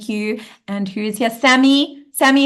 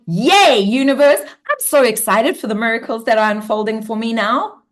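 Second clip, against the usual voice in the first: bright, louder cheer to the universe; excited; 3 dB louder than usual. Shown as a demonstration. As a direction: gush with joy about the miracles. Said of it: "I want you to be like".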